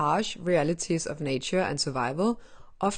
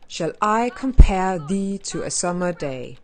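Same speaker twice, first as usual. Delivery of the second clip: louder, grand Shakespeare reading; theatrical recitation; 7 dB louder than usual. Pretend. Quoting Sonnet eighteen, mock grand recital voice. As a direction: declaim it like an earnest stage actor. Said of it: "I'm really trying here".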